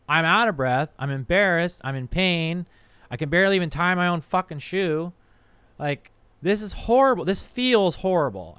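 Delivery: exasperated self-reproach. Acted. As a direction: list your miseries, fed up with yourself. Re-enacts his distress at being overweight.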